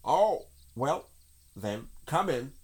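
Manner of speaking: high, hesitant put-on voice; relenting rabbit. A narrator's reading. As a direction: give in reluctantly. Rabbit gives in.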